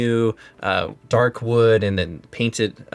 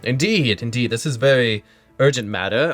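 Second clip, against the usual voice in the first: pompous guard voice. Acted. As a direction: read it like a gatekeeper. Guard reads the summons.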